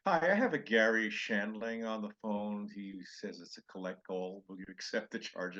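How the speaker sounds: a hint of switchboard routine; telephone operator. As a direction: read it out like an operator placing a collect call. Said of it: "a call from an operator".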